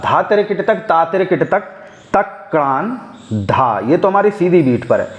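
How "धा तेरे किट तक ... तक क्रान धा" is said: first round of the tihai, chanted on the beat; rhythmic bol recitation. Shown as a demonstration. Teacher showing the first round on the straight beat. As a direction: keep the claps on the straight beat. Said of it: "जो हमारी पहला round है तिहाई का".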